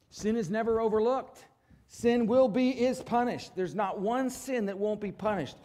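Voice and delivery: loud, high insistence that sin is punished; forceful preaching. Real, not acted. Preacher warning the congregation about sin, loud and firm. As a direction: hammer it home from the pulpit. Preacher driving home judgment.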